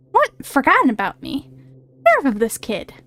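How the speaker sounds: lightly put-on cocky fairy; a hint of a brash fairy calling out; Tooth Fairy voice. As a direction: play a pushy little fairy. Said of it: "I'm giving him that kind of voice".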